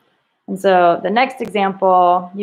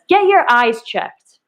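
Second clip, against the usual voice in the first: annoyed yell; 4 semitones higher, 4 dB louder, slower than usual. Shown as a demonstration. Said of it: "he's really annoyed".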